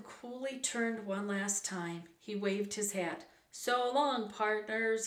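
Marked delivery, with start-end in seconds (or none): 3.5-5.1 raised-voice farewell call. A narrator's reading. Slim riding off from his friends, calling out goodbye. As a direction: call it back over a distance. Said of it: "he called".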